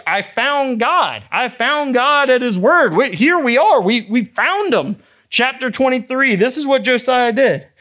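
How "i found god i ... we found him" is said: high, wavering imitation of tearful joy; mock weeping. Preacher voices Josiah finding God's word, mock weeping. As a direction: play the king overcome, half-crying. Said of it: "he starts to weep as he's like".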